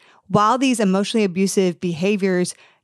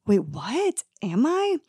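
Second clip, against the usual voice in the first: confused wait; 2 semitones higher, slower than usual. Retold or imitated. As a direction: caught off guard and unsure. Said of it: "you're like".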